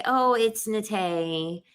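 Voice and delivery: slow, easy "Nate" as nuh-TAY; polite correction. Retold or imitated. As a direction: gently correct the name, taking your time. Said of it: "all she had to do was say".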